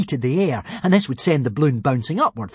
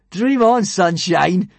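grinning; 4 semitones higher, 5 dB louder, much slower than usual. Acted. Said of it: "grinned Hiccup".

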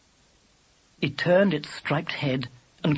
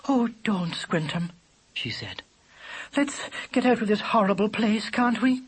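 put-on higher, anxious young dog; frightened plea; 6 semitones higher than usual. A narrator's reading. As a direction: plead to leave the awful place. Colleen pleads, shivering.

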